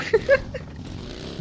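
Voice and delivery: short, high breathy laugh; soft laugh at a teammate; chuckle. Real, not acted. Gamer teasing his squadmate about the brakes, chuckling.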